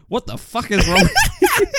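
high, loud mock outrage without accent. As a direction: imitate an outburst with all accent dropped. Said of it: "there's no accent".

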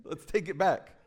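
high, laughing what; half-laughing mock scold; laughing disbelief. Father replaying his reaction to his son, laughing. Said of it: "I was like".

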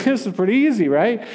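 high, lightly acted relieved knight; breezy relief. Relieved knight in retold film scene.

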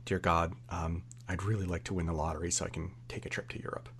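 soft, pleading whisper to God; whispered prayer. Retold or imitated. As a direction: hush it like a secret prayer. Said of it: "and he's like".

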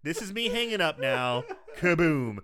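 brash mock brush-off. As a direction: slam the phone down in her voice. Voicing the doctor hanging up.

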